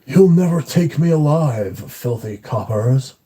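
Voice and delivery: lightly voiced Simpsons crook, slowing on filthy coppers; a hint of a cornered cartoon thief; imitating Snake. Describing Demi's voice, a mild Snake impression. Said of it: "he's like".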